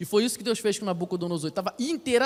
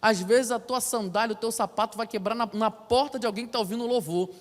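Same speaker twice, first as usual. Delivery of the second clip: normal talking voice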